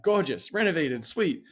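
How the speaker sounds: high gushing sales-pitch voice; mock gushing. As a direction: hype it up like a cheesy listing. Mocking over-the-top listing words.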